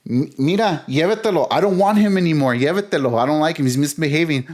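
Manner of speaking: mock exasperated, handing the kid over; mom's retold plea. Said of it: "And she goes".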